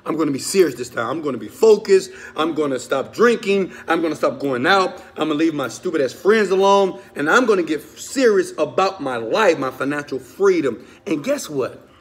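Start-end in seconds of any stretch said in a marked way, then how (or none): 0.0-10.9 loud, fast, fired-up promise to yourself; determined resolution. Retold or imitated. A man vowing to himself to get serious, loud and fired up. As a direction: swear you'll change this time, pushing hard. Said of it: "You say".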